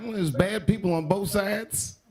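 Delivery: slow, measured mock fairness; drawn-out, carefully even-handed; mock reasoning. Comic weighing up the news, slow mock fairness. Acting his own optimistic take.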